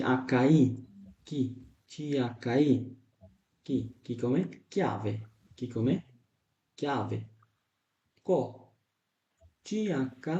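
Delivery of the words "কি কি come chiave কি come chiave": slow drill. Shown as a demonstration. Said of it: "teacher drills Italian word".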